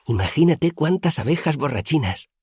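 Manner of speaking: put-on high, dreamy childlike voice; whimsical Auri. A narrator's reading. Auri musing about drunken bees, high whimsical voice. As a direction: muse like a wondering child.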